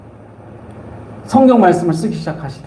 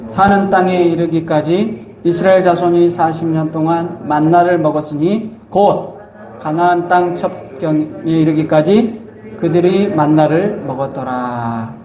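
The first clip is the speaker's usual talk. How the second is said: scripture reading; slower than usual. Acted. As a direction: lead a congregation reading verse aloud, drawing out the ending. Leads congregation in scripture reading. (성경 봉독하듯 낮고 차분하게)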